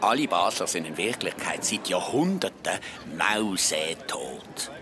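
mock spooky tale. Spooky zombie tale told teasingly.

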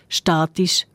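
statisch stressed on STA-; stress on first syllable. Shown as a demonstration. Host explaining the listener's contrast, statisch stressed on STA-. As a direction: lean on the opening syllable of statisch. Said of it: "auf der ersten".

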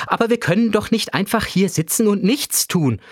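objecting. A narrator's reading. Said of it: "warf ich ein".

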